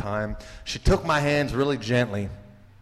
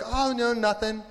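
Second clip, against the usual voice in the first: high-pitched mock-casual brush-off; airy, hammed-up dismissal; breezy denial; 11 semitones higher than usual. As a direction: act out waving the question away. Acted breezy denial to friend.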